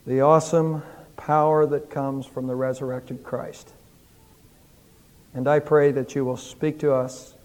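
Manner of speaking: earnest, measured pastoral prayer. Acted. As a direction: pastor leading a heartfelt Easter prayer. Pastor prays aloud to congregation.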